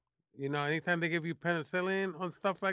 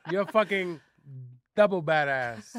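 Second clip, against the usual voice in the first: louder, punched double badass; double emphasis; 5 dB louder than usual. Shown as a demonstration. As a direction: say it again with double force. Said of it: "Okay, double time".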